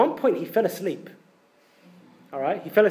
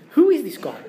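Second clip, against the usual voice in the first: higher and louder, astonished; amazed question; 5 semitones higher, 5 dB louder than usual. Retold or imitated. Disciples marvel at their master, louder. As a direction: marvel at him.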